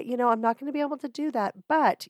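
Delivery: gracious decline. Shown as a demonstration. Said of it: "just say".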